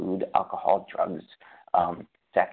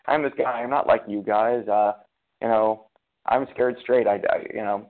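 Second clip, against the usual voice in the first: louder bravado as a cocky newcomer; mock Fred; 6 dB louder than usual. Retelling Fred's claim to the AA visitors, louder mock bravado. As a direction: play the guy who thinks he's different. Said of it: "who is like".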